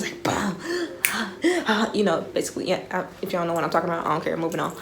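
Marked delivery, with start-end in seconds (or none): 0.6-1.9 high, quick mock gasp; imitated video gasping. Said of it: "that one little video with the bee".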